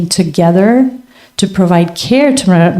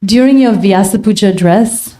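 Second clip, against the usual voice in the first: measured, deliberate restatement; slower repeat; 3 semitones higher than usual. Real, not acted. Devotee repeats a question for the guru, slower. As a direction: spell it out slowly for the listener.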